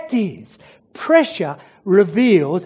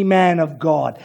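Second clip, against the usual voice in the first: sarcastic; 5 semitones lower than usual. Acted. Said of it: "hear the sarcasm dripping from her mouth".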